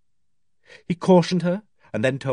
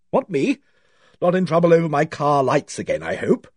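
higher-pitched, hearty surprise; hearty woman; 4 semitones higher, 3 dB louder than usual. A narrator's reading. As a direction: play it breezy and untroubled, pitched up. Suspect breezily answers policeman's request.

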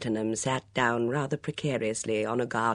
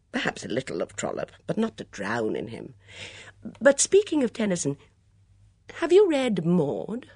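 airy Edmund; 2 semitones higher, 5 dB louder than usual. Acted. Edmund holding forth on poets.

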